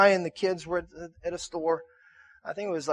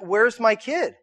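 raised, anxious parent's question; mildly alarmed, searching for a child; starting to panic; 5 semitones higher, 4 dB louder, slower than usual. Retold or imitated. Parent looking for a lost kid in a store, starting to panic. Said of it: "you start kinda freaking out".

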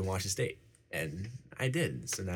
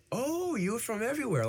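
much higher, gushing teacher impression. Student imitating teachers marvelling at his background, high gushing voice. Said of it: "always teachers be like".

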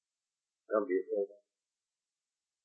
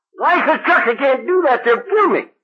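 higher, alarmed pleading voice; frightened protest; 13 semitones higher than usual. Acted. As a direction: play him scared for his life. Acted frightened reply of Chuck.

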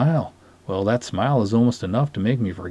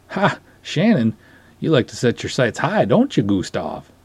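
teasing Sven; 2 semitones higher than usual. Acted. Sven teases Gustav about Shannon.

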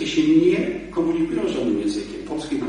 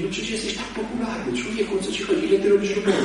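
devil's coaxing voice; 6 semitones higher, faster than usual. Retold or imitated. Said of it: "A diabeł ci mówi".

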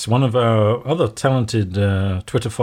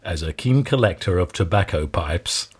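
bedtime story voice; 4 semitones lower than usual. Pretend. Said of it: "Can you get your best kind of bedtime story voice going".

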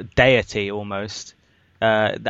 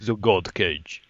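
wrestling announcer; 2 semitones lower, 3 dB quieter, slower than usual. Pretend. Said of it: "Sounds like a wrestler".

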